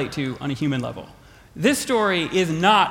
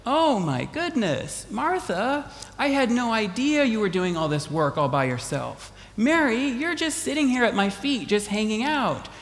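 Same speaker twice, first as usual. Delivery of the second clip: soft, higher mock sympathy; a hint of Jesus fussing over Martha; imagined sympathetic Jesus; 4 semitones higher, 3 dB quieter than usual.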